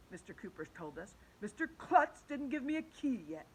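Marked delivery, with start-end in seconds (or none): 1.4-3.5 teacher's excuse. Acted. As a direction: draw out the excuse like a sheepish teacher.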